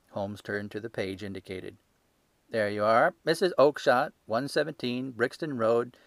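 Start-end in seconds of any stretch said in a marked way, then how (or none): 2.5-3.2 a stall keeper showing off his ledger, loud and sure; gruff salesman. Acted. Salesman crowing. 3.2-6.0 triumphant salesman. Acted.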